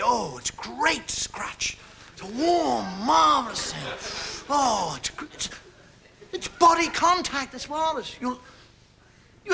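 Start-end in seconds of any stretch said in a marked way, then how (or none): 0.0-7.7 slow, savoring pleasure; dreamy, slowed-down contentment; blissful, slow. Pretend. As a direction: relish every word like a good scratch. Savouring a scratch.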